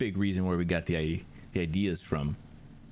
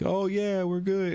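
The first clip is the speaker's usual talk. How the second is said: high mock voice; 12 semitones higher than usual. Mimicking music app before cutout.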